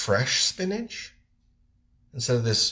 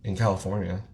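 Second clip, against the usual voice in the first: nose whistles as you talk; whistling nose; 4 semitones lower, faster than usual. Real, not acted. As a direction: air whistling through the nose. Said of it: "Like, I'm whistling right now".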